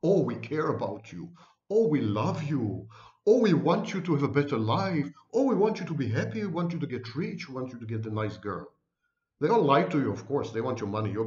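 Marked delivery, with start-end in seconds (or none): 0.0-8.7 mock syrupy guru sweetness, rising then fading; fake caring gurus. Gurus pretending to love their followers, mock sugary tone. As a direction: parody a self-styled coach faking empathy. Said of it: "They feign empathy".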